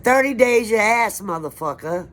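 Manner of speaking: high, loud yell at the police; retold furious yell. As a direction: shout it in defiance, word by word. Retorting to the police.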